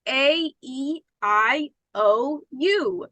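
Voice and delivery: vowels said slowly and openly, lips apart; vowel demo. Shown as a demonstration. Teacher demonstrates vowels to the class, lips apart. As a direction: show A, E, I, O, U with the lips not touching. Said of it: "think about when we pronounce our vowels".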